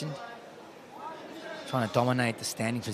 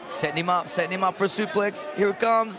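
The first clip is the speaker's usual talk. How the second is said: rising excitement; 5 semitones higher than usual. Real, not acted. Building toward expected suplex.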